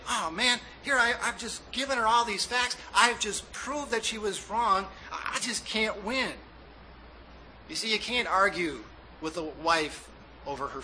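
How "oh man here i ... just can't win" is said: a touch of exasperated husband venting inwardly; higher, mildly defeated grumble to himself; frustrated thinking. Retold or imitated. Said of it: "and you think".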